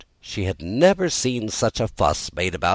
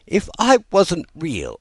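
laughing through tears; 11 semitones higher, 4 dB louder, slower than usual. A narrator's reading. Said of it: "half laughing through her tears".

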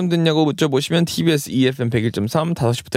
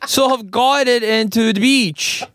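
put-on Australian accent, a bit higher; 4 semitones higher than usual. Host quoting the lifeguard's rescue story, Australian accent. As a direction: attempt an Australian accent, slowing at the end. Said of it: "I'm gonna do a Australian accent".

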